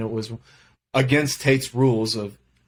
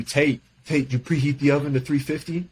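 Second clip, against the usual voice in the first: a higher, teasing imitation of the teammate; imitating Wyatt; 5 semitones higher than usual. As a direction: call out to Tate like the teasing teammate. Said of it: "Wyatt would always tell you".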